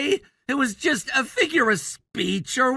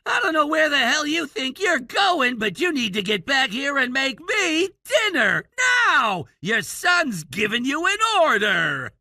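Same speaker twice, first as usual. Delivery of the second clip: rough, demanding yell at mom; delinquent tough-guy act. Acted. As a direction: bark orders like a wannabe rebel. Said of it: "trying to sound like some rebellious character".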